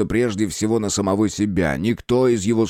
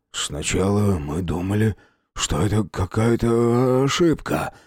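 trembling voice. A narrator's reading. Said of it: "дрожащим голосом".

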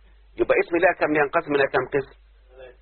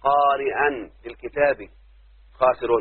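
"لا قارئا للكتاب" read slowly; slow example; slower than usual. Shown as a demonstration. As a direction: dictate it deliberately. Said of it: "يعني لو قلت".

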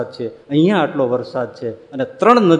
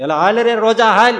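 urging the horse; 9 semitones higher, 6 dB louder than usual. Acted. Urging his horse into the flood.

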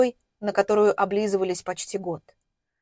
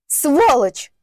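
high, loud outraged shriek; squealed insult; 5 semitones higher, 6 dB louder than usual. A narrator's reading. Slapped woman curses her attacker, high squeal. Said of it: "взвизгнула Стелла".

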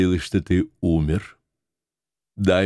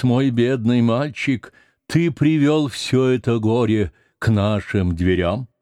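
lightly voiced old woman, higher, lamenting; причитание старухи; 3 semitones higher than usual. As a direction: mourn aloud as the old nurse. (лёгкое старческое причитание)

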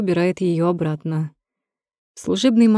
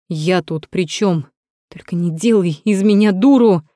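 shrieking; 5 dB louder than usual. Acted. Natasha shrieks at Rom, hurling a notebook. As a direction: shriek the last line. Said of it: "Взвизгивает".

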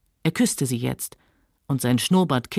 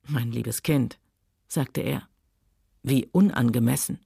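mocking man; 6 semitones lower than usual. Rhett mocks Scarlett.

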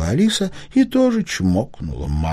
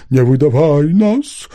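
usual speaking voice

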